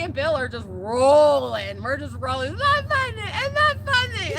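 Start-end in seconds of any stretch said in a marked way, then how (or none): 2.5-4.3 retold hilarity. Kids rolling with laughter, retold.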